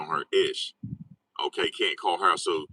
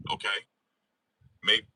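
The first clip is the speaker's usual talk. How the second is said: ordinary delivery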